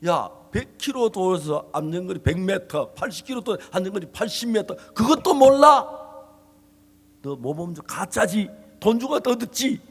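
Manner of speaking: retold heated scolding. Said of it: "막 싸웠어".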